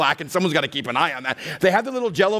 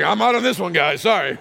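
sheepish bowing out; 3 semitones higher than usual. Retold or imitated. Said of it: "he's like".

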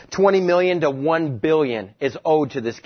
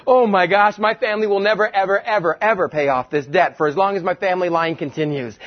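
panicked servant; 3 semitones higher than usual. Acted.

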